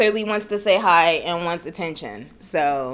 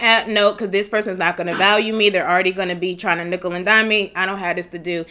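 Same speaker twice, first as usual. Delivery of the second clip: dismissive; faster than usual. Retold or imitated. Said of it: "You're gonna be like".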